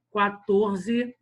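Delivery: QUATORZE in separated syllables; measured teacher's beat on QUATORZE; syllable scansion. Shown as a demonstration. Teacher counting out verse syllables for the class, QUATORZE said syllable by syllable.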